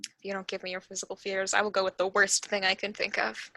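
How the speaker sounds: soft, quick mock threat; sneering panto villain. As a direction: purr a playful menace. DM threatens players teasingly.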